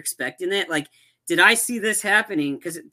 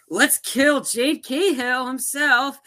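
sinister plotting; 7 semitones higher, 3 dB louder, slower than usual. Retold or imitated. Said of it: "they decide".

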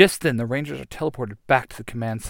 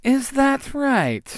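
slow villain voice; 12 semitones higher, much slower than usual. Acted. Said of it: "Nagalord s-, asks".

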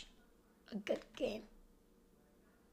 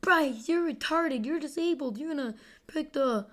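lightly voiced, jeering imitation of angry fans; a hint of a sneering caller; mocking listeners; 4 dB quieter than usual. Listeners in voice messages, a light mocking impression. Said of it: "send voice messages going like".

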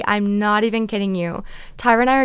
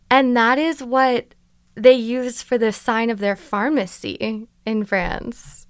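ordinary talk

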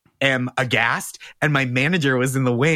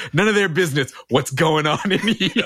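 chuckling as he points at the crowd; half-laughing, conspiratorial; laughing through it; 4 semitones higher than usual. Retold or imitated. Host joking to guest about the audience, laughing.

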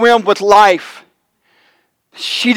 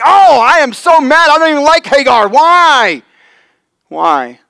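mock upset; 3 semitones higher than usual. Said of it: "Sarai's upset".

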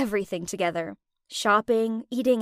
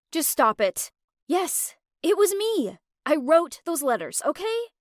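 defiant outburst; 4 semitones higher than usual. Acted. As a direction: fling the confession at them. Aaliyah confesses defiantly.

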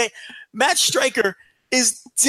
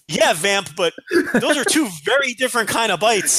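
laughing quote; 3 semitones higher than usual. Retold or imitated. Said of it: "and Stryker goes".

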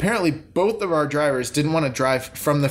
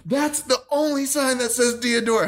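sarcastic point; 10 semitones higher than usual. Retold or imitated. Mocking driver.

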